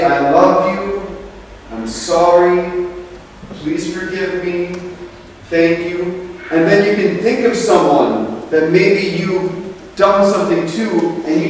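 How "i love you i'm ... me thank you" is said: slow, gentle phrase demo. Shown as a demonstration. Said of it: "and say".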